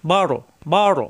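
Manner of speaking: বড় with a thick, heavy R. Shown as a demonstration. Teacher drilling a syllable for learners, heavy R in বড়. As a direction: make the R in বড় full and dark. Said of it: "র সাকিন, র মোটা".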